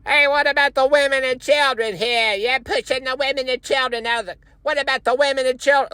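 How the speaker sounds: high, strained imitation of a man yelling; hammed-up outraged burger server; mock yelling. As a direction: holler in protest in a put-on high voice. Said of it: "starts yelling at us".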